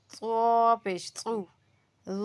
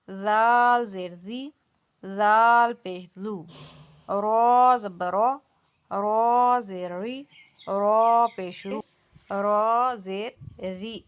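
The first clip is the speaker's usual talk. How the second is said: slow, deliberate letter-and-vowel drill; آہستہ مشق. Shown as a demonstration. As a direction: model each syllable slowly for students.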